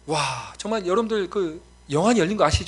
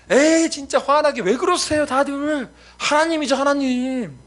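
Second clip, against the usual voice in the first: put-on high, loud, drawn-out child protest; worked-up little daughter; 10 semitones higher, 7 dB louder, slower than usual. Kindergarten daughter protesting to her family, worked-up mock child voice. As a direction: imitate an indignant kindergartner, high and insistent. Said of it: "막 하면서 흥분하는 거예요".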